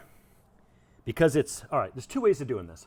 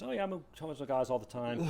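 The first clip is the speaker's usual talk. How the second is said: Meredith impression; 4 dB quieter than usual. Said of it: "Meredith on The Office".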